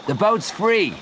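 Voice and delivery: high, eager call; excited shout. A narrator's reading. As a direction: cry out the good news. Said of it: "Joe shouted to Leon".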